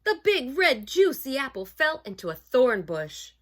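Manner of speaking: put-on animated storybook reading for children; story narration. A narrator's reading. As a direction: read it aloud to children, savoring key words.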